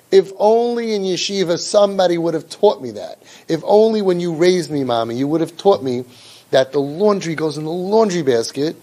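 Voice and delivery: a touch of sarcastic longing; milk the "if only" with irony; mock regret. A child mocking the parent's advice with sarcastic regret.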